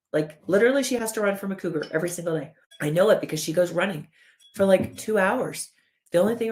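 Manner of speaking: lightly acted, incredulous body voice; alarmed body. Body reporting a cougar chase, mildly alarmed and incredulous. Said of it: "Your body is literally going".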